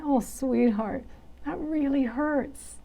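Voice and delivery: slow, tender comfort; soothing self-talk. Shown as a demonstration. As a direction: ease the hurt gently. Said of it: "kind and caring and soothing".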